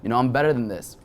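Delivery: a touch of an upbeat pep-talk voice; inner life coach. Retold or imitated. His inner life coach pepping himself up after the fight. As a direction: coach yourself through it. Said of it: "the motivational speaker and life coach in me".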